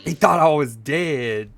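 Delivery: loud slow repeat. Retold or imitated. Streamer repeats clip line.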